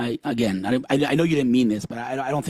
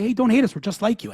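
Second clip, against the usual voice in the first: high, eager voice asking to be liked; mock pleading Jews; 10 semitones higher than usual. Guest mocking Jews who beg their hosts not to hate them, high pleading voice. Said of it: "we come to our hosts and we say".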